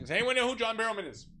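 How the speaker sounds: high, loud call to the group; mock officer asking around loudly; imitated lieutenant. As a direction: holler the question out. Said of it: "He's like".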